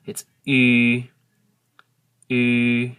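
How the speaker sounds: put-on Ü said loud, between the vowels of good and kid; Hmong W vowel. Shown as a demonstration. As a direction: stress the Ü, lips rounded, tongue moving toward kid. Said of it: "it's tricky".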